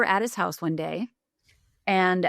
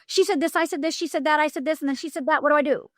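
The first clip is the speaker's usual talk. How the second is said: higher, flustered rapid report; anxious rush; 7 semitones higher, faster than usual. Retold or imitated. New coach reporting each session to Paul, flustered. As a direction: gabble it out, panicked for help.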